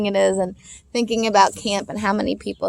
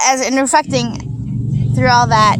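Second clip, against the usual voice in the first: tearful; 4 semitones higher, 4 dB louder than usual. Real, not acted. Mother tearing up over son.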